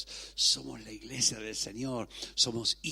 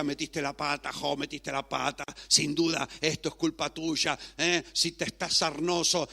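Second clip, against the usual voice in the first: mock accusing; 3 semitones higher, 6 dB louder than usual. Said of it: "uno por uno decía".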